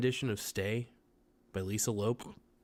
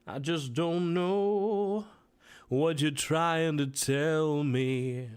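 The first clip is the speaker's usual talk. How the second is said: silly put-on voice; 3 semitones higher, much slower than usual. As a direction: drag every word out in a goofy whine.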